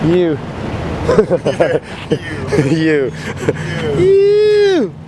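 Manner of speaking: hoarse, voice cracking, lost voice; raspy whisper. Real, not acted. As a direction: croak it out with no voice left. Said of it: "I have no voice still".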